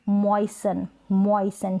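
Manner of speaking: मॉइसन said twice with no T; silent T. Shown as a demonstration. Teacher repeating the correct मॉइसन with silent T. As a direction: say मॉइसन dropping the T. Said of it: "टी को आप silent रखिए".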